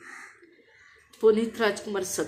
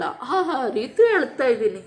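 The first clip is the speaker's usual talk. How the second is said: laughing and crying at once, louder; sobbing like a child; 4 semitones higher, 5 dB louder than usual. Shown as a demonstration. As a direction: break into a child's sob while saying it, half laughing. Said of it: "ಆ ರೀತಿ ಅಳ್ತಾರಲ್ಲ". (ಮಗುವಿನಂತೆ ಬಿಕ್ಕಿ ಅಳುವ ಧ್ವನಿ)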